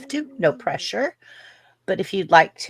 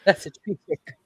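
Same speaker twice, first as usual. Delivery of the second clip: put-on Australian accent. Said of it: "A Crocodile Hunter, just like".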